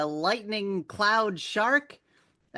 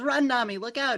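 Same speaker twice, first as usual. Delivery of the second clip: warning yell; 7 semitones higher than usual. Retold or imitated. Zeus warns Nami to run, in a mock warning yell. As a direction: shout it to save her. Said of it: "And he yells".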